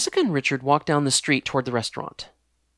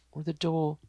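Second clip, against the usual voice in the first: sighing complaint; 3 semitones higher than usual. Acted. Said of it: "sighed Jessica".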